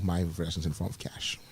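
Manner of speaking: whispered cheeky reply; playful whisper. Real, not acted. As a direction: whisper back a joke about cash. Answers the whispered joke.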